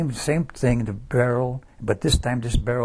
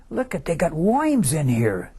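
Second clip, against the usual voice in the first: imitating a Brooklyn buddy, pitched higher; a retold Brooklyn complaint about the soup, higher voice; Brooklyn accent; 6 semitones higher than usual. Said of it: "with his accent from Brooklyn".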